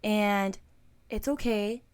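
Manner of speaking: gentle voice of God. Retold or imitated. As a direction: comfort her like a loving parent. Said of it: "He was like".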